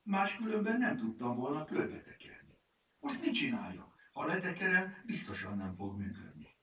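high-pitched, defensive explaining; making excuses. A narrator's reading. Lupi explains the bandaging to furmány, making excuses. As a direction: plead your case, apologetically. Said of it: "mentegetőzött Lupi".

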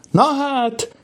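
very high exclamation of wonder; amazed cry. A narrator's reading. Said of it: "kiáltotta".

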